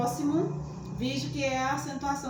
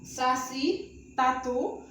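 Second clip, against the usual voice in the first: mock student; 3 semitones higher than usual. Teacher voices student objection.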